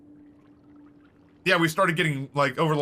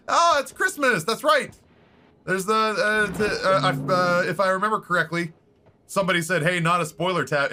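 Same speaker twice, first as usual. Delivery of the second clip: much higher, bright surprised voice; sudden realization; 5 semitones higher than usual. Real, not acted. Streamer suddenly remembering a message from chat. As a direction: jump up high as it suddenly clicks.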